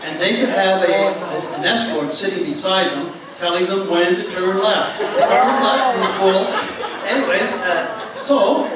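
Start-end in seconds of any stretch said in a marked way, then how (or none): 5.0-6.5 mock called-out direction. Escort calling directions to blindfolded driver.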